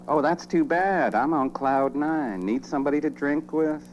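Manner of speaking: high, chirpy phone chatter; cheerful voice. Acted. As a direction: answer bad news with oblivious cheer. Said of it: "In the most cheerful voice".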